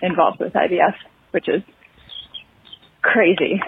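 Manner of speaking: breathless from walking the dog; winded, catching breath between words. Real, not acted. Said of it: "sorry, I'm a lot of breath. I've been walking the dog".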